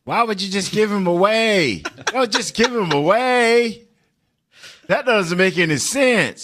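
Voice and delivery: high, loud mimic of a colleague; Mickey impression. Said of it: "That's a good fake, Mickey".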